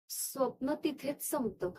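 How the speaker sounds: soft, low admission after a long pause; subdued, haunted. Acted. Dreamer admitting the real event didn't end there, subdued. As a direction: let the voice sink, quietly troubled. Hinting at what really happened.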